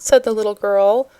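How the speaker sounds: ordinary delivery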